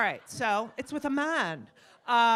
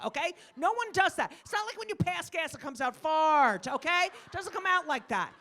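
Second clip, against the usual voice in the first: high-pitched, mildly mock indignation; comic exasperated complaint; exasperated scolding; 7 semitones higher than usual. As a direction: protest in a raised pitch, as if fed up. Retold scolding about the fake sneeze.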